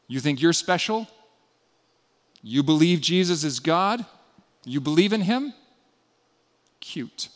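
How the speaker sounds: condescending disbelief; mocking. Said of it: "can you hear your own mocking voice?".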